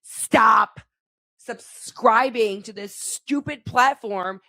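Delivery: loud, sharp shout of stop; angry command. Real, not acted. Ranting about Netflix prices to the audience, loud. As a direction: order everyone to quit at once.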